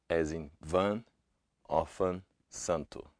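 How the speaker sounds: van, santo with a nasal an; Portuguese nasal a. Shown as a demonstration. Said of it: "nasal vowel sounds".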